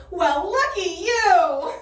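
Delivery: slow dry sarcastic reply; deadpan friend. Retold or imitated. Friend on speakerphone, slow and deadpan. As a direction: drag it out, unimpressed. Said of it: "She just goes".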